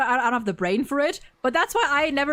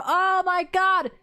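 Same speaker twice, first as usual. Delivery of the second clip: higher-pitched, gushing hype; real excitement; 5 semitones higher than usual. Real, not acted. Streamer hyped to chat about a favourite patch, real excitement. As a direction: gush about something you love, stretching the big words. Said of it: "I'm so excited to talk about it!".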